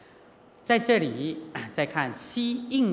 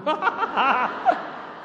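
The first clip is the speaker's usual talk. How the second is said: high laugh-like bawling burst; mock loud wailing; 11 semitones higher than usual. Nun recalls crying after hanging up, mock loud wailing. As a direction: burst into exaggerated, high-pitched crying sounds. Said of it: "我也放声大哭".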